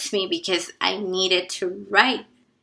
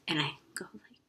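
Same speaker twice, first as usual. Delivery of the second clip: soft unvoiced whisper; 4 semitones lower, 15 dB quieter, faster than usual. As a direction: whisper as if the room is silent. Whispering the tense moment.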